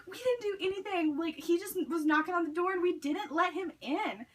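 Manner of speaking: high-pitched retold protest; indignant denial, imitated; defensive protest. Retold defence against an accusation.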